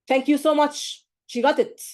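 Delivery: a touch of smug relief; mock candidate. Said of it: "Which is wrong".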